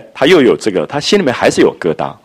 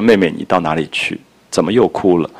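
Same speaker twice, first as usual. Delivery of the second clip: tender; 3 semitones lower than usual. Retold or imitated. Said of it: "宝玉的语言的温柔啊".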